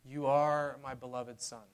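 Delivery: soft, loving words spoken to the listener; tender father. Acted. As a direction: say it softly, like a blessing. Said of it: "voice of the Father".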